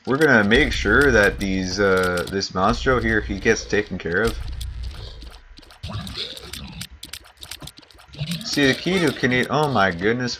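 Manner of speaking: put-on Canadian accent, stretched vowels; stereotypical Canadian. Streamer narrating a monster fight, hammed-up Canadian accent. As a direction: talk like a hoser narrating the fight. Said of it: "I should just go stereotypical Canadian".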